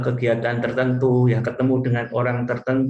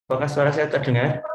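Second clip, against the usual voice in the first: glitching robot; 2 semitones higher, faster than usual. Real, not acted. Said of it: "namun suaranya putus-putus".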